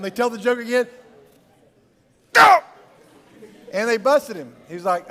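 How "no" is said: short, high, loud blurt; abrupt comic yelp; sudden outburst. Acted. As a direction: burst out with it all at once. Acting out the busted joke listener.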